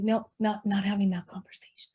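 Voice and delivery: mock whisper of avoidance, fast and hushed; quick whisper. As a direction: hurry through it under your breath, dodging. Mimicking avoidant self-talk.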